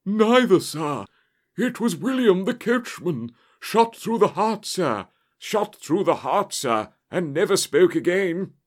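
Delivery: high, loud, agitated butler; panicked servant voice, pitched right up; breathless butler gasp. A narrator's reading. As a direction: burst out with shocking news. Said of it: "he gasped".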